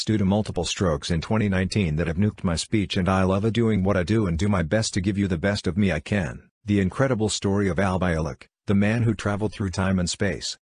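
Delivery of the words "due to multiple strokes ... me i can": robot voice. Real, not acted. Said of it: "Robot voice".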